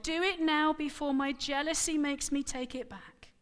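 put-on wife offers the servant girl, near breaking; crying out. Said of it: "she cried".

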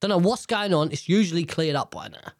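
blocked nose from sinus infection; nasal, stuffed-up voice. Real, not acted. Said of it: "I'm really sorry about the nasalness".

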